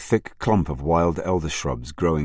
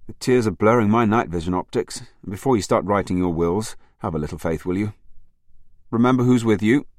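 muffled, higher and teasing; 4 semitones higher than usual. A narrator's reading. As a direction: tease from inside the boot, muffled. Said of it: "a muffled voice from the back".

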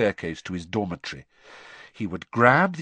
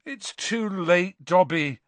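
hopeless; 6 semitones higher, slower than usual. Acted. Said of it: "Harry said hopelessly".

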